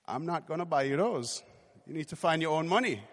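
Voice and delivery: imitated Caribbean mother's accent. Mother refusing her son's request, in a Caribbean accent. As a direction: put on a mother's Caribbean lilt. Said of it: "in her Caribbean accent".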